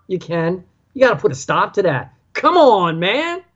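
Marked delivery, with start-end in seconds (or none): 2.3-3.4 a hint of Joe Biden, rising; lightly voiced old politician's catchphrase; Joe Biden impression. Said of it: "as Joe Biden would say".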